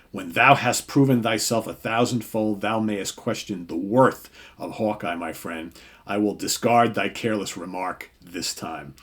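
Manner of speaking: a hint of grand, archaic rebuke; lightly voiced lofty Thor. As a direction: declaim it lightly like a noble thunder god. Reading Thor's speech aloud.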